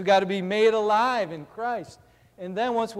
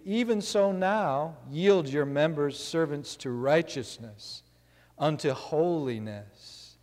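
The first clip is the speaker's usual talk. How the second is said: scripture reading; 2 semitones lower than usual. Acted. Preacher reads Romans aloud.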